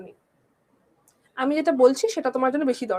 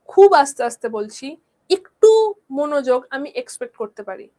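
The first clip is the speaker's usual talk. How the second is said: exasperated teacher; 6 dB louder than usual. Real, not acted. Scolding the class for inattention.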